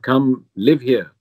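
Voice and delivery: slow, drawn-out imitated foreign accent; Father Marinko's accent. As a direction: mimic the priest's accented command, unhurried. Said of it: "I shouldn't do the accent".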